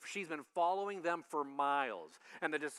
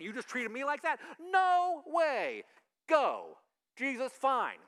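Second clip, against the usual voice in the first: offended huff; 5 semitones higher, 6 dB louder than usual. Retold or imitated. Offended listener rejecting Jesus.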